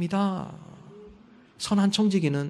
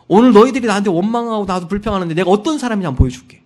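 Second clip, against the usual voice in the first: angry Moses; 3 semitones higher, 8 dB louder than usual. Retold or imitated. Moses furious at the grumbling people, loud. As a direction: throw it at the crowd in anger.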